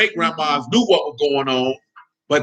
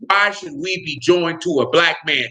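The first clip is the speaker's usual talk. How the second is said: slowed, quoted question; quoted question at a measured pace; quoting her; slower than usual. Retold or imitated. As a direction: read her words back dryly. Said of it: "one of those women said point blank".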